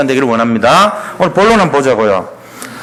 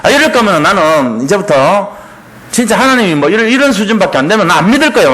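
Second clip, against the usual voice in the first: acted tantrum, building higher; mock petulant anger; 3 semitones higher than usual. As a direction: throw a mild verbal fit. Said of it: "화를 내고 막 이런 떼쓴다고요". (떼쓰듯 화내며)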